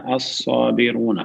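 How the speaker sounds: الصابرون read slowly, each sound drawn out; slow model reading. Shown as a demonstration. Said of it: "ایسے لکھا جائے گا نا". (الصابرون کو ٹھہر ٹھہر کر پڑھیں)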